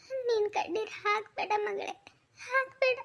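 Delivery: high-pitched, distressed pleading; anguished plea. Acted. Parent begging a daughter to stop crying, anguished and high. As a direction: beg her, pitch climbing on the repeat.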